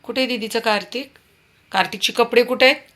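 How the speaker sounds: high, sing-song voice to a little one. Real, not acted. Baby talk to child about clothes.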